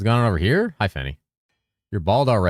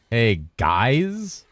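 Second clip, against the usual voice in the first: Squidward-like attempt; 3 semitones higher than usual. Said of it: "I sound more like Squidward".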